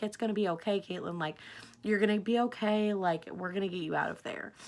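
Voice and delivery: softly retold motherly comfort; imitating reassuring mom. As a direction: lightly voice a nice, calming mom. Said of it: "really nice of her to just kind of be like".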